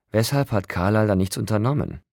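angry growl at the broken vampire. A narrator's reading. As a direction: snap the question at him. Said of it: "knurrte ich".

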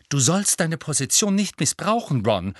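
sharp, scolding rebuke. Acted. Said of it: "sagte Hermine scharf".

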